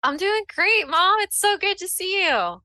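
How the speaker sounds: high, eager greeting; delighted daughter. Acted. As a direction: greet mom with gushing delight. Daughter greets mom happily.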